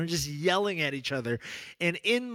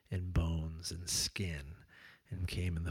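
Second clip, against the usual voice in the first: soft whisper; 9 semitones lower, 10 dB quieter than usual. Real, not acted. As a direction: breathe the words, almost secret. Tender detail of incarnation.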